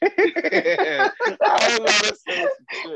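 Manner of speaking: laughing through the words. Real, not acted. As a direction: breaks into laughter mid-sentence. Laughs at own slip.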